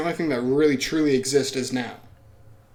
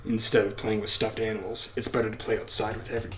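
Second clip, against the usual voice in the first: weird voice; 3 semitones lower, 4 dB quieter than usual. Acted. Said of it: "I'm fucking talking in a weird voice".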